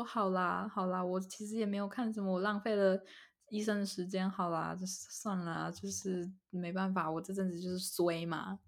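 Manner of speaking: slowing, softening inner sigh of acceptance; resigned. Retold or imitated.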